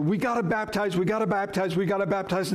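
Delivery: mock insistent, chant-like repetition. Preacher imitating people fixed on baptism, insistent repeating. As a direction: hammer the phrase over and over. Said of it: "you're gonna see a huge emphasis".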